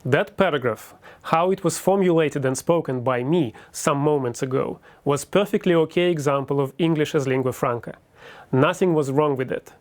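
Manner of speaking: Russian-accented lingua franca English; careful English with a Russian accent; native Russian accent. Shown as a demonstration. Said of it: "I will repeat".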